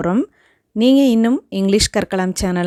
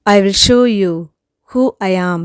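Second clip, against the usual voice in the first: angry demand; much slower than usual. Shown as a demonstration. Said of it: "கோபத்தோட பேசுறதுக்கு".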